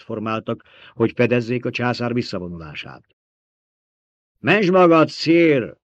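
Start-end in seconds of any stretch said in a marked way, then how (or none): 4.4-5.8 high, loud warning; urgent shout. A narrator's reading. Officer urges the emperor to flee, urgent shout. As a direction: shout to save your sovereign. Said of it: "kiáltott egy sardalkartiszt".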